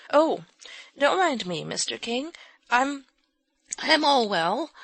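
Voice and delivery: high, breathless-sounding reassurance; a girl coming round insisting she's fine; faint girl's reassurance. A narrator's reading. Polly recovering reassures.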